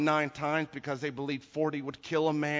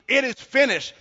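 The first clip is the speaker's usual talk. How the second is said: raised, loud declaration; crying out; 10 semitones higher, 9 dB louder than usual. Retold or imitated. Preacher translates Jesus's dying cry, crying out. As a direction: proclaim it as a final cry. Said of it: "he cries out".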